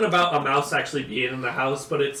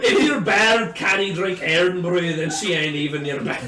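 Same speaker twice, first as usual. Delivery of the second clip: mock Scottish; 3 semitones higher, 5 dB louder than usual. Continues mock Scottish boast.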